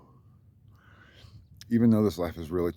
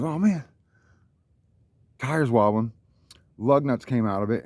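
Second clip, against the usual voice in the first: alarmed mock cry; 3 semitones higher, 3 dB louder than usual. Retelling the driver spotting the wobbling tire, alarmed. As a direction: act out the driver's panic over the wheel. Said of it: "the dude goes".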